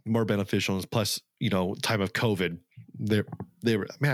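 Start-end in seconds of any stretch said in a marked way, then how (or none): 3.0-4.1 talking through hiccups; breaking off with a hiccup. Real, not acted. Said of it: "I have the hiccups".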